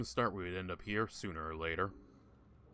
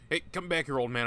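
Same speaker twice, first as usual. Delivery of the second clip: calling out; 6 semitones higher, 6 dB louder than usual. Acted. Calling after a fleeing ghost.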